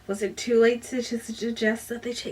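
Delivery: reading a novel excerpt aloud to viewers; measured storyteller read, voicing the dialogue lightly; book reading. Reviewer reading a passage from the book, story narration.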